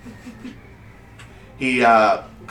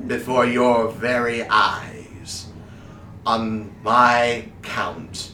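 slow, measured showman delivery; suspenseful stage magician; slower than usual. Acted. Wizard building up the vanishing trick for the crowd, theatrically slow. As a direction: stretch the words out for suspense.

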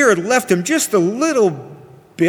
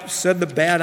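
ordinary delivery, nothing marked

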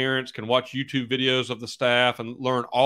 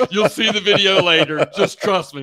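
insistent reassurance; 8 semitones higher, 9 dB louder than usual. Retold or imitated. Coach insisting to doubting quarterback over laughter.

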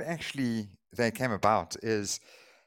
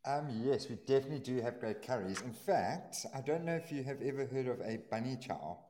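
echoey, far from mic; 7 dB quieter than usual. Real, not acted. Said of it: "almost sound like you're talking within a hallway".

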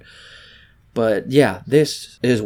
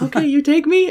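high, louder mock Russian woman; Russian accent; 5 dB louder than usual. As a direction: pitch it up in her Russian accent. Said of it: "She's like".

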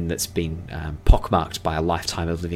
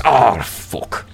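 louder, higher dwarf curse; cursing dwarf; 5 semitones higher, 5 dB louder than usual. Acted. Dwarf to elf after losing a roll, frustrated. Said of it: "the first time the dwarf".

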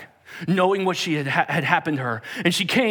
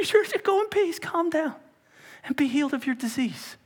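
soothing; 13 semitones higher than usual. Acted. Jesus calming the frantic woman.

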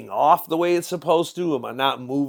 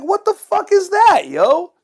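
much higher, loud incredulous outburst; outraged disbelief; 7 dB louder, slower than usual. Retold or imitated. Ranting about YouTube taking his views, high and incredulous. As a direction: squeal out the disbelief. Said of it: "I'm like".

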